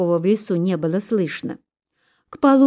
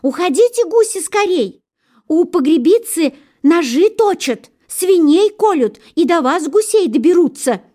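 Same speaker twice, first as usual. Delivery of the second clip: high, louder urgent cry; jackdaw shouting warning; 9 semitones higher, 5 dB louder than usual. A narrator's reading. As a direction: warn the geese to flee. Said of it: "кричит".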